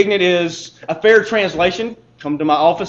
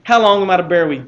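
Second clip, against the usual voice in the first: stern rebuke; 5 dB louder than usual. Acted. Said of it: "Jesus says".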